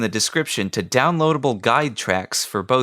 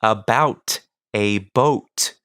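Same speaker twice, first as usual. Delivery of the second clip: "yellow leather" slow, every sound crisp; over-enunciating; much slower than usual. Shown as a demonstration. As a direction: articulate "yellow leather" slowly and precisely. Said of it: "same over-enunciation technique".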